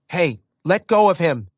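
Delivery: loud, high shout; protective shout. Acted. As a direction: yell to defend him.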